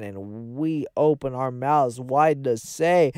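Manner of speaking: pompous sermon, slowing on the big words; mock grand proclamation. Hosts addressing their audience, mock divine sermon. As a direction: preach like a self-made god.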